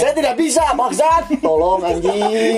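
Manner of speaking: very high, hammed-up Indian accent. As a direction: overdo a mock Indian accent, almost squealing. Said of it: "India itu mah ngehina ya". (aksen India lebay, melengking)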